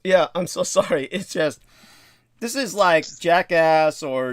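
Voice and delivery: laughing through the words. Real, not acted. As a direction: laugh while apologising. Still laughing and choking.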